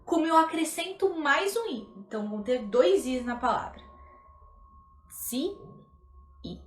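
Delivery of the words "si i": Si, i split into two slow, distinct syllables; separate syllables. Shown as a demonstration. Teacher breaking zii into syllables for students, slow and distinct. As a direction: pull the two i sounds apart clearly. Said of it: "tem que ser muito bem pronunciada".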